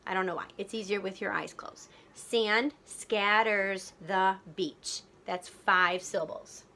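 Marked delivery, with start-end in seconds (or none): 2.1-5.0 very slow, each syllable separated; deliberate beat-by-beat reading; counting beats. Shown as a demonstration. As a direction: tap out the beats with your voice. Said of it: "count the beats of the words".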